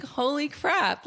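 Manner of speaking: high, slow "holy crap" of amazement; drawn out in happy shock; stunned delight. Retold or imitated. After the girl says yes, high and amazed.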